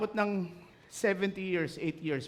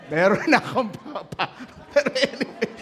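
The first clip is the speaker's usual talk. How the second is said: laughing through the words, louder; 4 semitones higher, 8 dB louder than usual. Real, not acted. Pastor quoting the old woman's reply about her suitor, laughing. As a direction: break into laughter mid-line.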